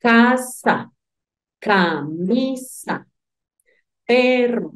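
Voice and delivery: imitating a teacher drawing out each syllable slowly; teacher splitting syllables. Teacher showing kids how to split words, slow syllables. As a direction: spell out casa, camisa, perro syllable by syllable like a schoolteacher. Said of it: "La profe nos decía".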